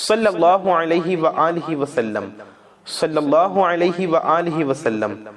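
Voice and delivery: slow, repeated prayerful chant; slow chanted repetitions; slow devout recitation. Shown as a demonstration. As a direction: draw out each repetition reverently. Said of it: "اکیس بار".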